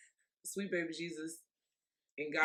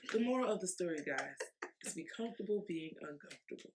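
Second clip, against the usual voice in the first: storyteller voice; 5 dB quieter than usual. Shown as a demonstration. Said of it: "Let me say it like a book teller".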